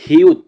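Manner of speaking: হিউত loud, starting on a clear h; pronunciation demo. Shown as a demonstration. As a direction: model হিউত firmly, closing on t. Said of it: "হিউতের উচ্চারণ হবে হ". (হিউত জোরে স্পষ্ট উচ্চারণ)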